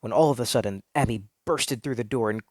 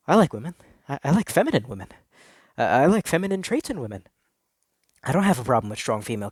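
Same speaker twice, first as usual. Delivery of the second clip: insistent protest; 2 semitones higher, 4 dB louder, faster than usual. Acted. Insistent self-reassurance.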